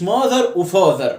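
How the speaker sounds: mother و father said as rhymes; wrong "mother and father", both sounding alike; mistaken matching vowels. Shown as a demonstration. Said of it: "مش".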